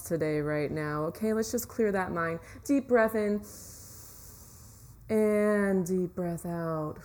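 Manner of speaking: calm relaxation guide voice; guided meditation. Acted. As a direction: ease them into relaxing.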